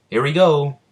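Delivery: high, loud take-off cry; launching call. Acted. Asta flies away carrying Noel, excited call.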